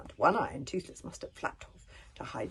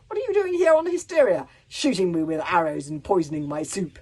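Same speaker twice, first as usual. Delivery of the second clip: menacing smile; 9 dB louder than usual. Acted. Smiling chief interrogates.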